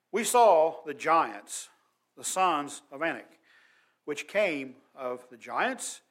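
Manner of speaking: slow, weighty Bible reading; deliberate, drawn-out scripture recitation; emphatic scripture reading. Acted. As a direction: read the verse aloud slowly, leaning on key words. Reads a Bible verse aloud.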